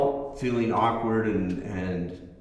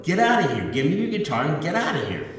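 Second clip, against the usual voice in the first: put-on louder and higher, retelling a teen's raised-voice demand; 5 semitones higher, 4 dB louder, faster than usual. Teen raising his voice at the guitarist to leave. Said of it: "and he raised his voice".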